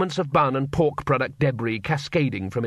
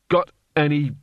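growled. A narrator's reading. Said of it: "it growled".

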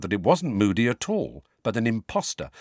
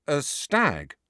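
nervous; 6 semitones higher than usual. Acted. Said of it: "said Harry nervously".

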